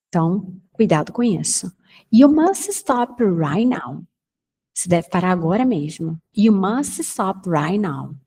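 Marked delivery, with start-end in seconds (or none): 2.1-4.0 You must stop right now said slowly and firm; firm slow warning; urgent model. Shown as a demonstration. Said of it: "model warning". 6.4-8.1 You must stop right now, slow and even; slow dictation; slow model repeat. Shown as a demonstration.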